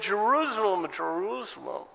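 high, loud cry to a city; imitated anguished appeal; impassioned lament. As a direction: call out in reproach, pitched well up. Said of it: "He even did it to the city of Jerusalem".

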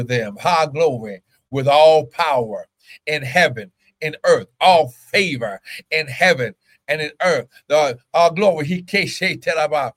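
punched, declaratory prayer in short bursts; fervent prayer. Real, not acted. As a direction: pray it over the congregation with conviction. Prays and prophesies over listeners.

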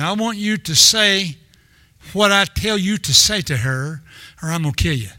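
a joking threat he doesn't really mean; half-hearted threat. Retold or imitated. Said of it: "I said it in kind of a half-hearted manner".

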